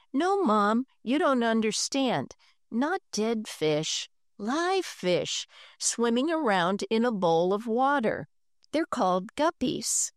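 put-on eager boy explaining. Henry explains live fish.

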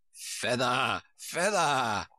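sheep character calling out; sheep's repeated cry. A narrator's reading. Sheep corrects Alice's rowing, crying out in character. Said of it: "the sheep cried again".

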